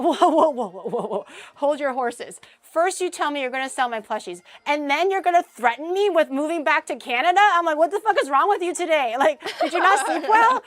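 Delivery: half-laughing outraged yelling; mock alarm. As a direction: rein him in, hammed up. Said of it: "And I'm like".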